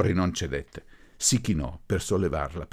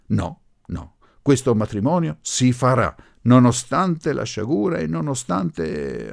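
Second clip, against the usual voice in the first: loud, higher, emphatic insistence; infuriated; 7 semitones higher, 7 dB louder than usual. A narrator's reading. Professor insisting on the wedding despite the misfortune, infuriated. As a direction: build to exasperation, slowing at the end. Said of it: "infuriato e sbuffante".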